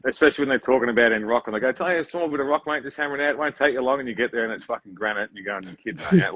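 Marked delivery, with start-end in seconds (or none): 1.7-4.0 higher-pitched mimicked customer; breezy downplaying. Customer talking rock job down to operator, breezy imitation. 5.6-6.3 higher, exasperated mock protest; disbelieving. Operator finding granite instead of small rock, disbelieving.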